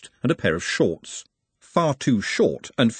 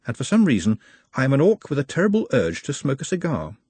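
earnest confession in a lightly raised voice; measured, higher-pitched Nutt owning up; solemn Nutt; 4 semitones higher than usual. Acted. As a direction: confess it carefully and gravely.

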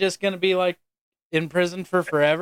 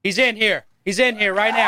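excited announcement; 6 semitones higher, 3 dB louder than usual. Real, not acted. Announcing Nan Nan has arrived.

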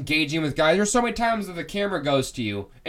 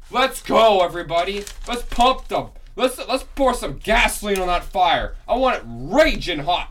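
fired up; 3 semitones higher, 3 dB louder than usual. Real, not acted. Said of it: "I am fired up right now".

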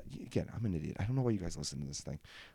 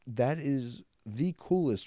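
delighted awe; 7 semitones higher, 3 dB louder, much slower than usual. Real, not acted. Marvels at friend.

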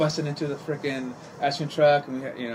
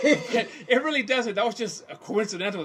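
laughing; 9 semitones higher than usual. Real, not acted. Telling the host it isn't daily, laughing through it. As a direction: let the laugh carry the words. Laughing while correcting the story.

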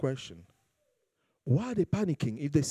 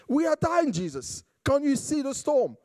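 panicked disciples; 11 semitones higher than usual. Retold or imitated. Disciples waking Jesus in the storm, mock panic. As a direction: cry out like terrified men in a sinking boat. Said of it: "Can you imagine the poor Jesus".

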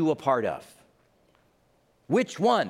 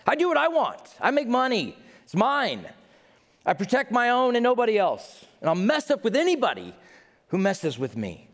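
arrogant selfish voice; 8 semitones higher than usual. Acted. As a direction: puff up like someone who owes nobody. Voicing the selfish prostitute city.

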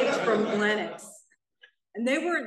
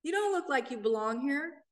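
imitating a hooker's greeting, much higher; mock hooker voice; 8 semitones higher than usual. Inmate greeting a newcomer in jail, high mock voice. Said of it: "I got to hear these hookers go".

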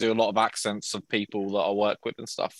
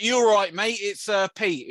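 manager's phone voice; 8 semitones higher than usual. Retold or imitated. Retelling the manager ringing up, higher imitated caller voice. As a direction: play the caller, pitched up. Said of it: "he's like".

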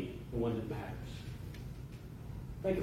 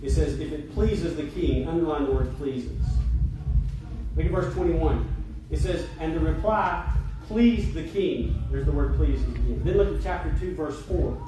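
preaching. Acted. Preacher to congregation, underlining verses in Esther, emphatic preaching. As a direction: preach the verses out with force, leaning on key words.

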